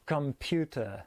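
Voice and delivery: slow "computer" with weak first and last vowels, stressed PU; English pronunciation. Shown as a demonstration. Teacher contrasting spelling and sound, slow English "computer". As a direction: lean on PU in "computer". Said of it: "la prononciation du mot en anglais".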